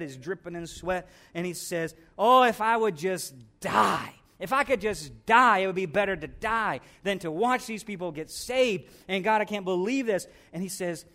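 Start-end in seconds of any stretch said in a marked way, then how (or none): 2.2-10.3 anguished complaint. Acted. Jonah wishing to die.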